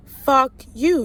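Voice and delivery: mildly heated outburst; retold going off. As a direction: retell an angry comeback with some punch. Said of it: "And I was going off".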